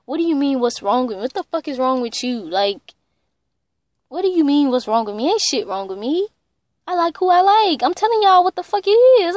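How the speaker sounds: pissed off. Retold or imitated. Granddaughter retorting to grandmother who asked what's wrong, pissed off. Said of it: "it just pissed me off".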